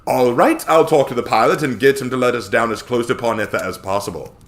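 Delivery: a smug, fawning money man; slimy Samuel. Acted. Samuel smugly pressing them about where to land.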